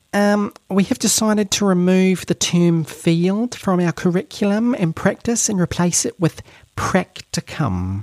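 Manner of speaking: very high-pitched, affected put-on voice. Quoting a statement explaining a decision: put-on higher-pitched voice. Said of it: "I should do this in a different, higher-pitched voice".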